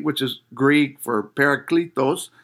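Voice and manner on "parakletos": Parakletos said with a Spanish accent, rolled and crisp. Shown as a demonstration. Preacher naming the Greek word, light Spanish accent. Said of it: "I pronounce that with a Spanish accent".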